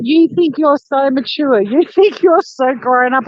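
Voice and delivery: mock-indignant younger sibling, drawn out; slow, mildly mocking retold outburst; sister going off. Retelling a screaming sister's tirade, mock indignant. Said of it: "she went off at me".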